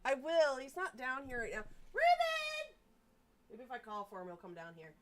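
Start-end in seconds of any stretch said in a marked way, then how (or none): 1.9-2.7 calling the cat. Real, not acted. Calling her cat downstairs.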